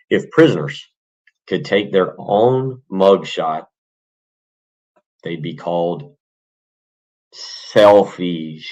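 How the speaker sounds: hammed-up joke delivery. Delivering the punchline of a dad joke.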